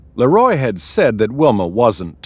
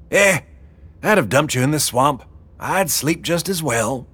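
high-pitched, offhand boss woman; dismissive Wilma; 6 semitones higher than usual. Acted. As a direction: shrug off the protest in a high voice. Wilma shrugs off the protest.

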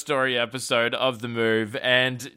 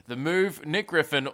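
usual speaking voice

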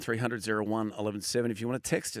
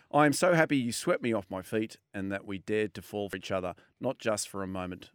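tender reading; 5 semitones lower, 3 dB quieter than usual. Retold or imitated. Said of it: "this was the quote they put out".

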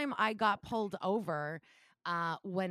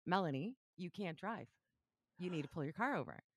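firm cop; 6 dB quieter than usual. Retold or imitated. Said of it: "And he's like".

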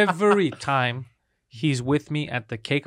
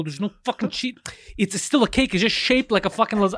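exasperated rant; 5 semitones higher than usual. Retold or imitated. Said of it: "I'm just getting all angry".

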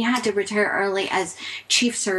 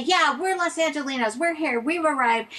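mock proud; 6 semitones higher than usual. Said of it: "it really helped to say".

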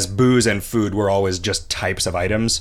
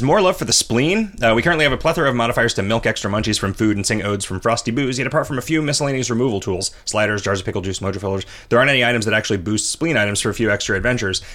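reading aloud; faster than usual. Acted. Reads a listener message aloud.

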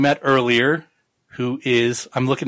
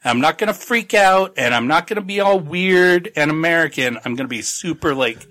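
nervous excited promise; 4 semitones higher than usual. Retold or imitated. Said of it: "He's like".

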